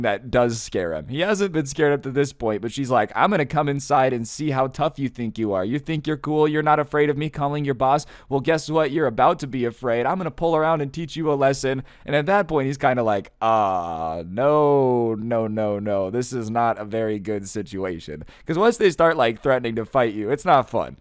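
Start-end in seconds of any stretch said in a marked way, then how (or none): 3.1-11.8 imitated menacing challenge, pitched a little up; threatening customer. Acted customer threatening a fight. 13.4-18.2 drawn-out sinking "no"s, falling away; mock dread as trouble approaches; dismayed manager. Acted worried manager sinking in dread.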